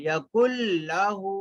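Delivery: यकुल लहू, doubled l and long oo; merged lam recitation. Shown as a demonstration. Teacher repeating the corrected reading, merged lam. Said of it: "यकुन लहू नहीं पढ़ेंगे".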